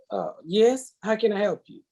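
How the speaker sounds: polite phone voice, "Uh, yes. How can I help you?" brightly; mock customer service politeness. Answering her ex on the phone in polite customer service manner. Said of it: "Just like that ... like she was doing customer service".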